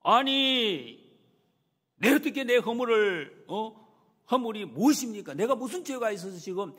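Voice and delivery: loud, high outburst with a drawn-out first word; indignant yell, stretching the opening; angry shouted rebuke. Acted. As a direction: shout your protest at the uncle, high and forceful. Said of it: "아주 소리를 치고 있습니다".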